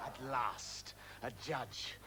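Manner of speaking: soft, slowing, savoured phrases; hushed wonder. Acted. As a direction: savour it softly, pause between phrases. Alone, savouring the moment.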